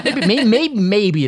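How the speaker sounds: high loud stammer into laughter; giggling over the joke; laughing. Real, not acted. Joking about chunks.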